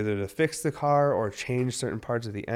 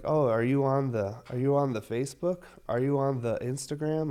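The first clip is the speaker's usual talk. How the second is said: put-on old person voice; 4 semitones higher than usual. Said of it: "I probably sound like an old person that's like".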